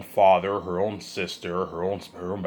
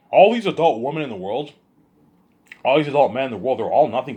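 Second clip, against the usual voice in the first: louder and higher, building indignation; angry rant; 5 semitones higher, 7 dB louder than usual. Real, not acted. Speaker scolds all adults watching, raised angry voice. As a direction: call out the whole world, heated. Ranting at his audience.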